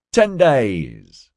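loud, high, gleeful boast. A narrator's reading. Marty answers Mark's question about the girlfriend, gleefully. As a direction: burst out with delighted pride. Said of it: "Marty said gleefully".

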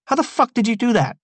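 very high, stunned street voice; amazed Travis. A narrator's reading. Travis amazed his record is sealed, very high. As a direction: gasp it out in disbelief. Narrator voices Tea Cake.

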